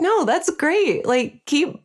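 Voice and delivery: lightly acted encouragement, slow at first; encouraging. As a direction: reassure a shy amateur, pitched well up. Voicing own encouragement to shy musicians.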